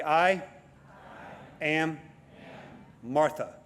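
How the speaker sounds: each word spoken slowly and set apart; "I" ... "am" ... "Martha", pausing between words; leading a call-and-response. Shown as a demonstration. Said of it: "Repeat after me".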